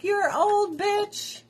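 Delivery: high-pitched mock scolding; mock scream. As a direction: scold as the imagined nagging body. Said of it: "My body is screaming at me like".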